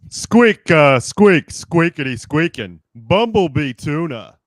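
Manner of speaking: a light Kronk impression; loud squeaks in a dopey voice. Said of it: "do it in Kronk's voice".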